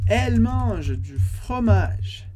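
slow and deliberate, every syllable clear; slow model reading. Shown as a demonstration. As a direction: read it slowly for learners to repeat. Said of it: "teacher model-reads sentence slowly".

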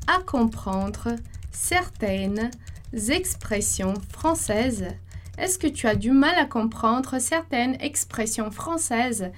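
slow, careful dictation pace; slow French model phrase. Shown as a demonstration. Teacher dictating the second phrase to students, slow and careful. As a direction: read it out word by word for the learner. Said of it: "segunda frase lá então".

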